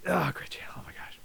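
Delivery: hushed, breathy whisper of delight; whispered excitement. Real, not acted. Vlogger whispers fondly about a channel they love, soft whisper. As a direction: whisper it like a secret treat.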